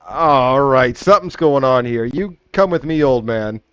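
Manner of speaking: a hint of a stern guard; suspicious guard. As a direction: order him along like a guard. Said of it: "because they're like".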